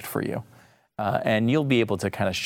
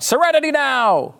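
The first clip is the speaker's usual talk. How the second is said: high, exasperated sitcom-dad yell; yelled outburst; 3 dB louder than usual. Retold or imitated. Host imitating George Costanza's dad in real trouble, yelled. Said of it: "he'd yell out".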